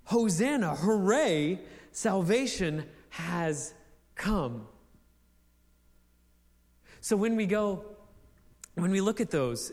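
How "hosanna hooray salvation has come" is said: Hosanna and hooray cheered, then salvation has come drawn out slowly; cheer, then land it slowly; a jubilant shout that settles; joyful exclamation. Shown as a demonstration. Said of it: "It's the assurance that there it is".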